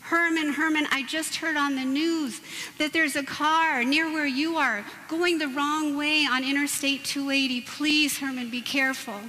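urgent pleading phone warning; urgent wife. Retold or imitated. Wife warning husband on the phone, urgent. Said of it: "she said with an urgent tone".

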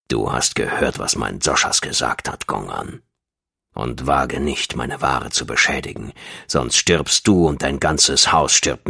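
very low, controlled threat; deep menace. A narrator's reading. Dashab threatens Gong's whole house, deep menace. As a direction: keep it deep, measured and deadly serious.

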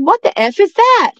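mock scream of disbelief; retold scream. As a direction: yell it out in shock at the creature. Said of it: "And I screamed it".

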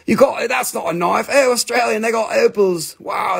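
hammed-up dim-witted enthusiasm; stupid Americans. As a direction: play a clueless fan wowed by Australia. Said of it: "only thing stupid Americans".

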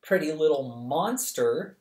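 a hint of sour sarcasm, near the narrator's own voice; dry retort. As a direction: turn the compliment sour. Charmaine's sour retort to the woman.

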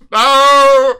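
sharp, loud refusal. Real, not acted. Streamer refusing chat's clip request with a loud no. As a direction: shut the request down hard.

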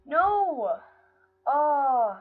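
loud, high cry of dismay; anguished cry. Real, not acted. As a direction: wail it out in real disappointment. Fails close to the end.

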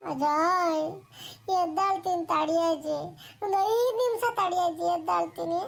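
put-on sleepy boy pleading. Grandson stalling his grandmother from bed, lightly voiced sleepy whine.

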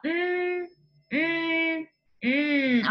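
"Mm" hummed with tongue on the roof; letter sound n. Shown as a demonstration. Teacher showing the n sound on the palate. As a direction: hum it through the nose, tongue up. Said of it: "your tongue is going on the roof of your mouth".

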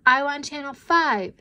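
put-on high, loud little-girl demand; demanding child. A narrator's reading. Twin fighting over the television, demanding.

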